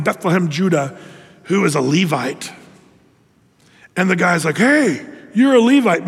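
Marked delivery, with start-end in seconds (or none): 4.6-6.1 higher, louder mock excitement; playfully hammed-up delight; excited discovery. Micah spots a Levite visitor, mock excited.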